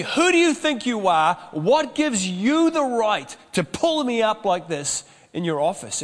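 retelling a defensive member's outburst, lightly angry; mock angry retort. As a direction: bristle at the pastor, acting it out. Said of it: "they are angry at me".

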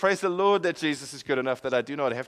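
high, loud cry easing down into praise; exultant preaching. Real, not acted. Preacher declaring to the congregation that Jesus is good enough, exultant. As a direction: proclaim it at a high pitch, then settle gradually.

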